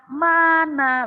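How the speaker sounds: loud, high rally shout; rousing call. Shown as a demonstration. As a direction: shout it to wake everyone up. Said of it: "Setiap saya tanya".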